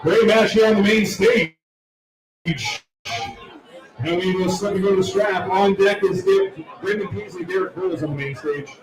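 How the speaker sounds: arena announcer reading the lineup over the speakers. Acted. Announcer to arena crowd, calling the next matches.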